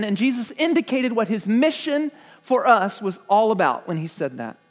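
normal talking voice

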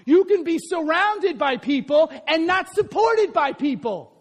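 ordinary talk

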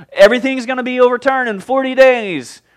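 high, projected mock proclamation; calling out. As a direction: call it out in a grudging singsong. Jonah calling out to the city.

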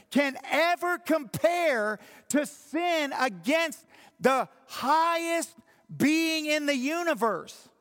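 slow, loud and high, hammering each word; preaching shout. Acted. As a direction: shout it out slowly to the congregation. Climax of the sermon point.

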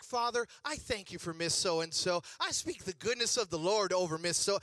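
lightly imitated positive prayer; a hint of preacherly declaring; Joel Osteen. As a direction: pray blessings like a televangelist mom. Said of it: "My mom went all Joel Osteen".

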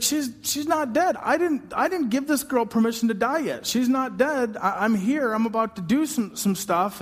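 a lightly voiced Jesus who can't believe it; incredulous Jesus. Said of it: "He's like".

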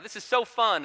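high-pitched gleeful cry, held back in volume; retold excited scream. Older daughter shouting in play, mock excited scream. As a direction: imitate a small girl crying out in excitement. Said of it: "So Hattie screams out".

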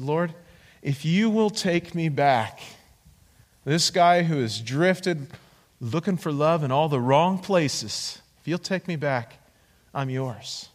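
slow, earnest prayer with pauses; retold prayer. Man surrendering to the Lord, slow retold prayer. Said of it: "my prayer went something like this".

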